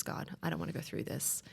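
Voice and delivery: quiet plea. Retold or imitated.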